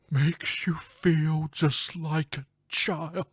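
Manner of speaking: slow eerie whisper. Acted. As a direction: breathe the rhyme out like a curse. Reading the game's riddle.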